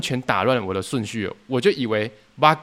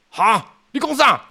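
much higher, slow, louder incredulous ha; shocked what; 10 semitones higher, 5 dB louder, slower than usual. Retold or imitated. Supervisor learning the ratio was reversed, slow shocked higher cry. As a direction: disbelief at what he just heard.

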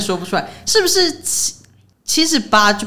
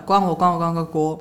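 fast slurred; 3 semitones lower than usual. Shown as a demonstration. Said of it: "就是念很快".

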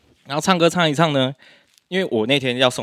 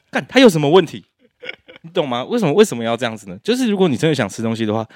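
exasperated; 2 semitones higher than usual. Real, not acted. Venting about ex's post.

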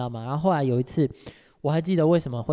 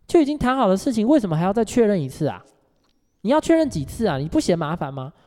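raised, higher-pitched retold challenge; loud demanding question; 7 semitones higher than usual. Coworker grilling her before the whole branch, loudly. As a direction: press her loudly in front of everyone. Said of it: "很大声的问我说".

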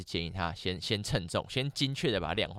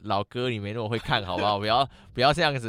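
exasperated inner voice; 5 dB louder than usual. Retold or imitated. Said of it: "我心里想说".

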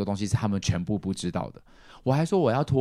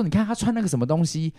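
高而轻蔑的模仿腔，尾句放慢; 学长辈酸溜溜地挖苦族服; 嘲讽的醉酒叔叔; 9 semitones higher than usual. Retold or imitated. 叔叔嘲讽阿美族服. (模仿叔叔尖声嘲讽族服)

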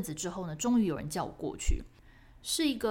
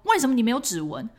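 louder, stern demanding question; angry officer; 4 semitones higher, 7 dB louder than usual. Retold or imitated. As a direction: bark it like an irate officer. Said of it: "他还超生气".

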